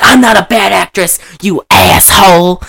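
hammed-up outrage, stretching the insult; mock yelling. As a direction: imitate an offended star telling him off. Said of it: "she's yelling at him".

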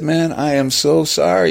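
put-on high, apologetic American accent; emphatic American apology, pitch up; David Fincher. Director apologising to actor, high American accent. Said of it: "first American accent I could, comes to mind".

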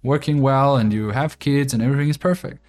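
a lightly voiced earnest girlfriend; imitating girlfriend. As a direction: boyfriend mimics his girlfriend defending housewives. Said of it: "And she's like".

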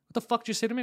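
acting out his blow-up at the game booth, mock angry; retold angry challenge. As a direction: replay the fight line with the voice jumping up. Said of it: "And I go".

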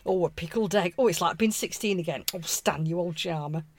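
lightly voiced fond wife, softening; acted affection, a hint of Northern; mollified Northern wife. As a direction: melt at the husband's offer.

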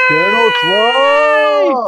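high, loud, slow shout; excited shout. Acted. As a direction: call it out with big cheer. Echoing the segment announcement.

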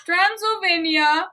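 lilting mock-Swedish reading; Swedish Chef accent. Reading the author's holiday note, mock-Swedish accent. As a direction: let the bad Swedish accent swing the vowels. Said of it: "in the accent of Swedish Chef".

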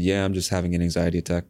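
calm, casual admission; matter-of-fact. Retold or imitated. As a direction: let it out quickly, as if it were nothing. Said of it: "I said it just like this".

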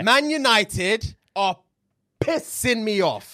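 each word slowed and weighted; slow emphatic. Acted. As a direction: drag it out for emphasis. Venting slowly about his team.

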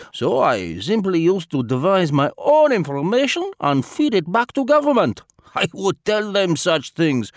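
put-on Eastern European accent, sly and self-satisfied; a smug old spy boasting of his tricks; foreign spy voice. Spy character's confession monologue.

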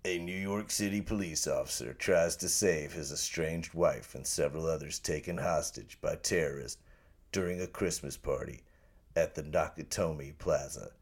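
measured trailer narrator, slowing at the end; movie trailer voice. Acted. Guest redoing the log line for take two, trailer voice. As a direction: lightly put on a movie-trailer voice. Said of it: "do the In the World voice".

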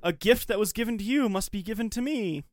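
lightly voiced taunting hunter. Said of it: "Hunter's like".

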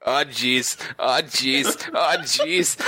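squirrel voice. Retold or imitated. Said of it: "one was like".

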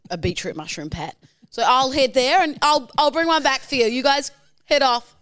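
fib cheerfully to the group; sneaky vegan protester. Acted. Vegan protester to fellow protesters, chirpy and sneaky. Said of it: "you're a vegan protester".

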